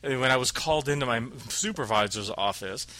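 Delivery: a touch of a stiff, formal coworker; mock pompous phrasing. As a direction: lightly parody someone trying to sound proper. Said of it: "You don't say".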